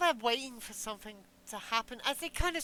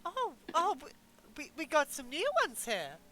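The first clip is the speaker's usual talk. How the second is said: bartender voice; 4 semitones higher than usual. Acted. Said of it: "He goes".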